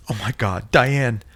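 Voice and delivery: high, loud desperate call; frantic shout for her friend. Acted. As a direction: shout her name in panic. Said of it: "Nancy shouted".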